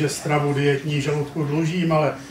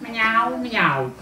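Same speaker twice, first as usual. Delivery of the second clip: mock meow mňau mňau; the puppy shows off its meow; playful meow; 6 semitones higher than usual. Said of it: "vykřiknu".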